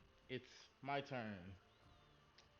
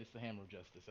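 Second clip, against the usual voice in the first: gravelly voice; 4 semitones lower, 5 dB quieter, much faster than usual. Retold or imitated. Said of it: "do the gravelly voice and say it".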